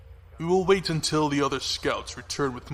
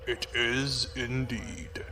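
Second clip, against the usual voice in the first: softer, much slower, heavy confirmation; grave slow echo of himself; slow grim murmur; 5 dB quieter, much slower than usual. Acted. Officer repeats confirmation quietly.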